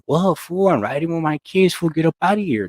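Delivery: imitating himself telling the cop to move on; retold call-out to cop. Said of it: "and I'm like".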